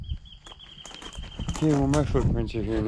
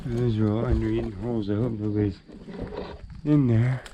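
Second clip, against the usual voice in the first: breathing hard after the climb; talking while out of breath. Real, not acted. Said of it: "I'm sorry I'm breathing so hard".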